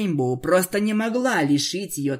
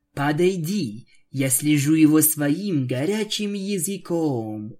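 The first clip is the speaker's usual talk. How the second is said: smiling vampire. Acted. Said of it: "улыбнулась Аланис".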